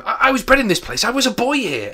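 high, loud joyful cry; overwhelmed with glad recognition; excited joy. Acted. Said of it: "exclamations in the way that he is talking".

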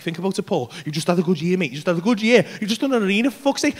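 low, soft coaxing; reassuring, gently persuasive patter; persuasive inner voice. Retold or imitated. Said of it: "starts getting all persuasive on me".

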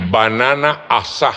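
"asá" ending on a stressed á, no d; stressed final Á. Shown as a demonstration. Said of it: "escrita como suena".

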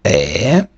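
"е" as one drawn-out open vowel; French vowel sound. Shown as a demonstration. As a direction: model "е" for the letters est. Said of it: "яке читається як".

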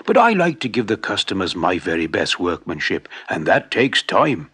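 a hint of a proud, patient craftsman; old shoemaker.

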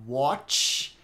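"watch" with a drawn-out hissy CH; hissed CH ending. Shown as a demonstration. Teacher shows the hiss to a student, "watch" with long CH. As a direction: lean on the CH at the end of "watch". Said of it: "Olha só como tem o chiado".

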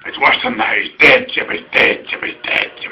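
breathy whisper, a mock-grave doctor; whispered quote. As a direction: whisper it like grim news. Star Trek doctor quote whispered.

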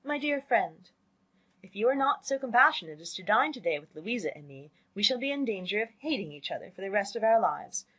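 lightly lilting letter-reading; reading a letter aloud. A narrator's reading. Jane reading an invitation to her family, lilting read-aloud. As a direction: read out a friend's note with mild animation. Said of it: "and then read it aloud".

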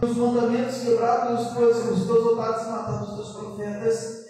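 fast, run-on scripture quote; rapid recitation. Retold or imitated. Preacher quoting Elijah's answer to God, recited quickly. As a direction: rattle through the prophet's complaint.

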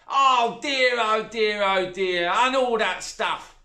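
high, loud, dismissive stepmother; not remotely sad. A narrator's reading. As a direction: rattle off the condolences with no care at all. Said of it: "a tone that did not sound even remotely sad".

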